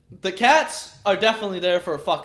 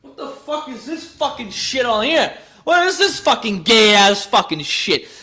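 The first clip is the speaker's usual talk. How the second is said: outraged rant; 3 semitones higher, 4 dB louder than usual. Real, not acted. Ranting at Christmas video thumbnail.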